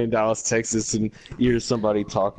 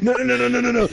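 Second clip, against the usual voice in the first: excited no no; 12 semitones higher, faster than usual. Real, not acted. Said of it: "excited interruption".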